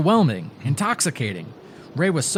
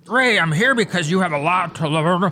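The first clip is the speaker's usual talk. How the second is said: falling-apart ghoul voice; 4 semitones higher than usual. Acted. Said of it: "the voice".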